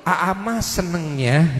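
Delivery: low, slow husband voice; acted tender request, pitched low; gentle husband coaching. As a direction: tell your wife slowly what you like. Husband gently coaching his wife.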